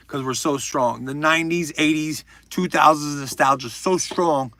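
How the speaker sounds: rallying hype; rally the crowd like a party starter; building party-hype energy; pumping up a party. Real, not acted. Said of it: "I'm pumping up a party".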